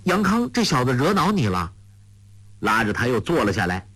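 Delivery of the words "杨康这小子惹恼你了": put-on much higher, lively girl bristling; young girl's surprised indignation; indignant girl. A narrator's reading. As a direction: take her friend's side sharply. Huang Rong asks indignantly.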